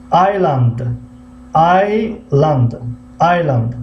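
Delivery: "Island" said as /ajland/ with no s sound; silent s in Island. Shown as a demonstration. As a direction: say "Island" as eye-land, dropping the s.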